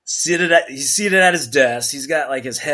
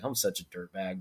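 inner thought; 5 semitones lower, 13 dB quieter than usual. Retold or imitated. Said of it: "thinking in my head".

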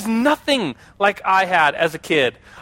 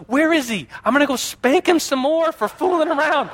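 imitating mom; 8 semitones higher than usual. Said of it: "My mom's reaction was".

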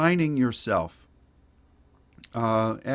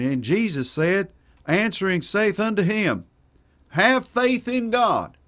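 southern accent; 6 semitones higher, 4 dB louder than usual. Shown as a demonstration. Preacher reciting Jesus's answer to Peter, put-on southern accent. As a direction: quote scripture in a put-on southern accent, climbing higher. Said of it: "I'll say it in a southern accent".

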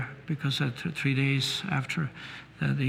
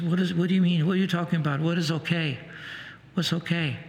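retold agitated questioning, slightly raised voice; mild mock yell; 3 semitones higher, faster than usual. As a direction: imitate an upset mother demanding answers from a doctor. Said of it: "yelling at him".

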